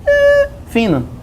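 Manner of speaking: squeaked high and drawn out; tiny high-pitched demo voice; thin high voice. Shown as a demonstration. Demonstrates the word thin.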